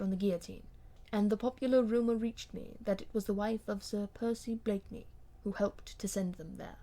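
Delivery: a hint of a wronged husband, restrained; lightly voiced bitter husband. Husband recounts betrayal coldly.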